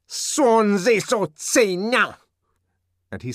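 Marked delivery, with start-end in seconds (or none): 0.1-2.2 high, loud, slow scornful curse; derisive ferocity. Acted. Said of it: "with what derisive ferocity".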